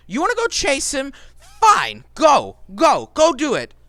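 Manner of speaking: exasperated boss berates his dim henchman; angry boss. Acted. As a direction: tear into the henchman.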